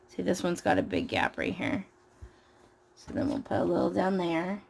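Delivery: scratchy, gravelly tired voice. Real, not acted. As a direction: talk through a gravelly throat. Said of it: "Oh, I sound so gravelly".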